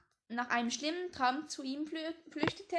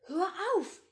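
sharp, louder and higher cry; stern protest; 5 semitones higher, 6 dB louder than usual. Acted. Maggie tells her joking father to stop, stern and loud. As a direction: snap at him to stop. Maggie sah ihn streng an.

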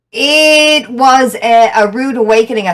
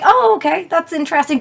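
a higher, surprised oh, okay; mock surprised oh; 8 semitones higher than usual. Streamer told she seems intimidating, replying surprised. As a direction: act taken aback, then mull it over. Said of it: "And I was like".

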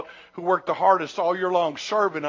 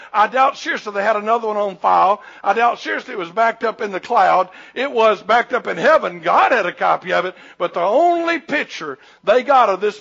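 preaching; 4 dB louder than usual. Acted. Preacher at full force.

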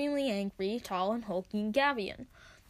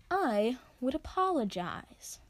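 smooth and cold; slower than usual. Acted. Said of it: "smooth and cold as ice".

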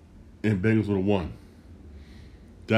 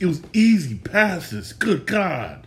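exasperated disbelief; 7 semitones higher, slower than usual. Real, not acted. Frustrated fan ranting about drops.

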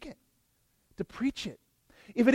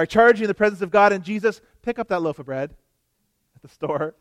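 mock solemn charge; 3 dB louder, faster than usual. Shown as a demonstration. Preacher joking bread errand is holy charge, hammed-up. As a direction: overblown oath for a loaf of bread. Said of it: "that's a bit overkill for bread".

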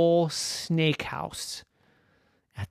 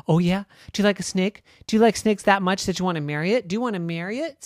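put-on higher little-girl voice, teasing; teasing little sister; 7 semitones higher, 6 dB louder, much faster than usual. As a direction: tease your sister about marrying a snake. Mary teasing her sister.

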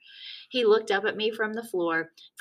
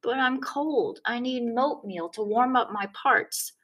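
put-on whiny little kid; 5 semitones higher than usual. A narrator's reading.

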